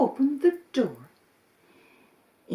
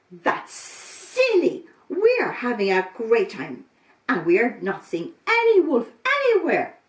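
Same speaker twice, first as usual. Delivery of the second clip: dismissive rabbit; 6 dB louder than usual. Acted. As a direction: brush off the worry.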